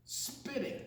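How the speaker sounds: breathy whisper on the last word; hushed whispered reveal. Acted. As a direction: whisper it like a secret.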